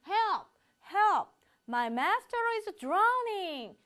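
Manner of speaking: loud, high calls for help; urgent cries for help. Shown as a demonstration. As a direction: shout for help in panic. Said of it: "follow me".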